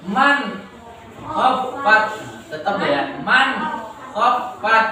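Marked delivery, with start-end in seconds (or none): 0.1-2.0 "Man khaffat" with a distinct n; clear nun reading. Shown as a demonstration. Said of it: "begitu cara membacanya". 3.2-4.9 "man khaffat" with a distinct n; clear nun reading. Shown as a demonstration. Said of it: "begitu cara membacanya".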